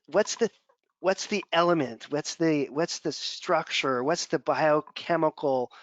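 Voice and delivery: put-on slow, halting quote of an elderly mentor; a hint of a deliberate, professorial Southern gentleman; lightly voiced Southern gentleman. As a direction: lightly imitate a Southern gentleman searching for words. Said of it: "maxed out Southern gentleman voice".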